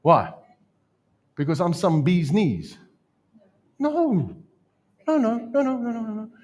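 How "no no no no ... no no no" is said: high, insistent string of denials; a preacher's high, rapid-fire no; emphatic no. Real, not acted. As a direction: shoot the idea down, up high. Preacher rejects his own suggestion.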